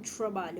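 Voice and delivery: "trabalho" with English R, like "tro-balho"; mock gringo "trabalho"; gringo pronunciation. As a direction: imitate a foreigner's curled R in "trabalho". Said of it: "Geralmente os gringos falam".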